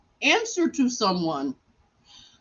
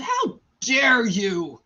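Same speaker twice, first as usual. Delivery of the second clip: slow, indignant retold rebuke; mock indignation; slower than usual. Confronting the doctor who walked out, slow mock indignation. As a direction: draw out the indignant question.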